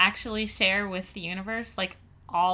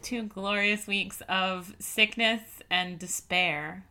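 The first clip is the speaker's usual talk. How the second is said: mock-tragic; 2 semitones lower, slower than usual. Mock-dramatic echo, slow.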